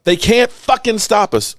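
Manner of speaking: high, drawn-out swaggering brag; chest-out team bravado; cocky boast. Acted. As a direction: crow it like the champs. Boasting as the Cowboys.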